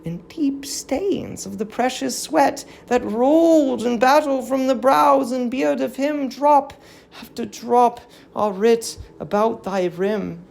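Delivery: solemn tragic verse, lightly voiced; a hint of an old queen grieving; grieving queen's lament. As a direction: mourn the fallen city in measured verse. Reads Hecuba's tragic verse lament.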